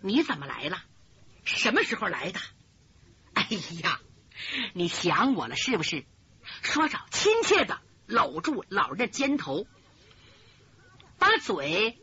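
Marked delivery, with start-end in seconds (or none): 0.0-6.0 lower, soft fond coaxing; a young man fondly teasing an old friend; cheerful greeting. Acted. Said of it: "乐乐呵呵的迎了过去". (武生亲热地笑着招呼老人)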